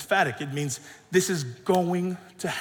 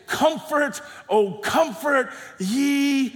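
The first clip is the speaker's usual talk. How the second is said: raised pitch, drawn-out words; oracle's proclamation; 5 semitones higher, slower than usual. Acted. Preacher voices the oracle to a waiting people, proclaiming. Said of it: "we hear the oracle say".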